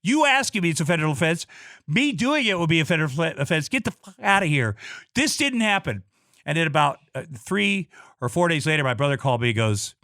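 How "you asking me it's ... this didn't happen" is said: governor's anger. Retold or imitated. Governor angrily throws him out.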